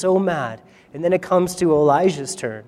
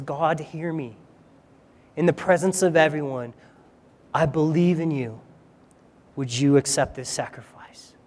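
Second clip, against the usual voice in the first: much softer, sinking to a whisper; hushed prayer; 3 semitones lower, 6 dB quieter than usual. Retold or imitated. Elijah kneels before the crowd and prays, softly fading to a whisper. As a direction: pray on your knees, barely above a breath. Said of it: "he prays a simple prayer".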